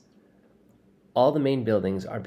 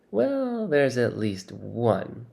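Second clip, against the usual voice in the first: dry; much slower than usual. Acted. Tyrell dryly points out.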